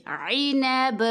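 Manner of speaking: عینب ending in a bouncing echo on ب; qalqalah on ba. Shown as a demonstration. Teacher showing qalqalah on عینب. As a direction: give the ب in عینب a light jolt. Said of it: "یہاں پہ ہم قلقلہ کریں گے".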